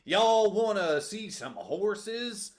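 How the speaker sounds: put-on very slow cowboy drawl, botched Boston accent. Co-host joking as the Cowboys of Boston, slow cowboy-Boston accent. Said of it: "The Cowboys of Boston".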